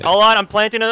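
loud, hurried battle call; urgent callout. Real, not acted. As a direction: call it out over gunfire.

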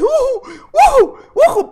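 gleeful high-pitched whoops; loud high cheer with a laugh. Real, not acted. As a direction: whoop it up like you just got away. Celebrating cheer in game.

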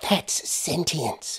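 very slow, high voice; explaining American woman. Acted. Woman explaining her drawing to Hamish, slow explanation. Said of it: "the woman explained".

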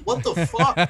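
high, loud laughing outburst; laughing disbelief. Retold or imitated. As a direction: blurt it out through a laugh. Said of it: "I was like".

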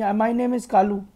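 slow, deliberate filmy dialogue parody; mock Shah Rukh line. Gamer spoofing a famous film line, slow and filmy. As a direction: deliver "my name is Kalu" slowly, like a movie hero's punchline. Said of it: "तुम शाहरुख खान हो क्या?".

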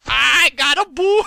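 high, loud drawn-out yell; pained holler. Real, not acted. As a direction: holler it slowly at full volume. Hurt in game.

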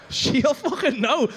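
slow, laughing repeat of She'll fucking know. Real, not acted.

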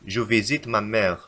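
slow wrong sentence. Shown as a demonstration. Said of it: "فهذه جملة خاطئة".

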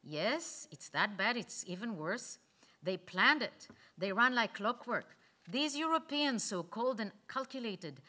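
loud, insistent retort. Acted. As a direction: speak up over the room, insistent. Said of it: "Iris, louder".

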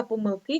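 помилки stressed on the final И; stress on last syllable. Shown as a demonstration. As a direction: lean on КИ in помилки. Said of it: "має лише один наголос".

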